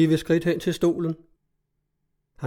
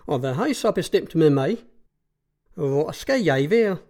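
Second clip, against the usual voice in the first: put-on old mother. A narrator's reading. Old mother asks her fate.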